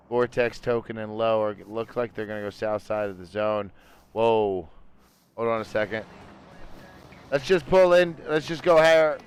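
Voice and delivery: steady esports caster voice; play-by-play. Acted. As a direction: call positions and rotations live. Casting the next phase of the match.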